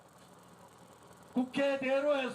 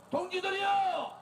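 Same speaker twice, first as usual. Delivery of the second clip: roaring rallying speech; 4 semitones higher than usual. Real, not acted. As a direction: rouse the crowd with a shout. Rally call to crowd.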